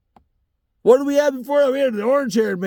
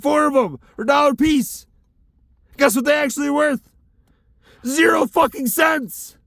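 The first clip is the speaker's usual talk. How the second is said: heated rant; 5 semitones higher than usual. Real, not acted. Ranting about Trump gold coins.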